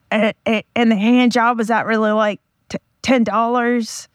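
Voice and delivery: a second-hand, hammed-up celebrity voice telling a deli joke; friend's Gilbert Gottfried impression. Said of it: "try to impersonate my friend telling the joke".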